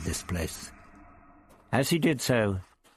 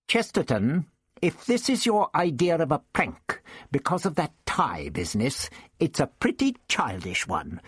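put-on raised, testy old man voice; the Doctor lectures Ian, smug and raised; 5 semitones higher than usual. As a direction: play the prickly old Doctor. Doctor suspects prank.

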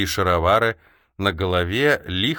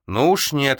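raised-pitch, emphatic refusal; defiant exclamation; 7 semitones higher, 4 dB louder, slower than usual. A narrator's reading. Prince draws his sword against capture, exclaiming defiantly. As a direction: burst out in refusal. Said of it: "воскликнул княжич".

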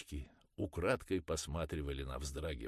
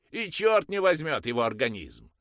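much higher and louder, straining; loud anguished curse; 10 semitones higher, 13 dB louder than usual. Acted. Mother cursing loudly before the priest, straining. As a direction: curse it out with a tearing cry. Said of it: "Громко, с надрывом выругалась мать".

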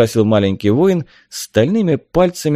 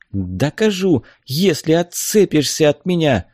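raised, indignant reply; irritated retort; 6 semitones higher than usual. A narrator's reading. Tela snapping back at her captor, irritated. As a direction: answer back crossly, without shouting. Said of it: "огрызнулась Тела".

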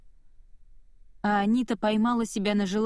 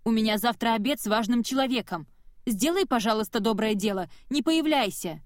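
shouting after her; 2 semitones higher than usual. Acted. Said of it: "крикнула".

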